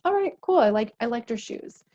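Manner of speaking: trusting partner, relaxed and upbeat; easygoing acceptance. Pretend. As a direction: shrug it off cheerfully. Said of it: "In a healthy relationship".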